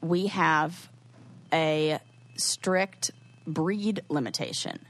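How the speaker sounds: slow, deliberate policy readout; measured reading of a strict rule; quoted policy. Retold or imitated. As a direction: spell out the rule word by word, pausing. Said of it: "it says in their pet policy".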